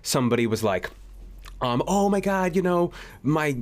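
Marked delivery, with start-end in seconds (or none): none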